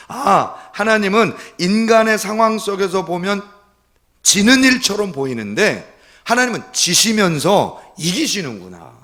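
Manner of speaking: high, forceful sermon delivery; impassioned preaching. Acted. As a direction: preach the revelation with rising conviction.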